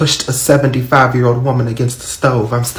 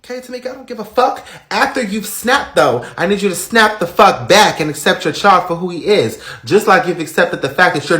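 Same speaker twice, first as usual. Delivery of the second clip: sharp comeback; 6 semitones higher than usual. Acted. Grandma snaps back at Tamika.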